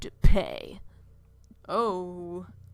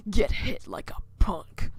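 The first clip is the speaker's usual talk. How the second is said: threatening whisper. Acted. Threatening the teen.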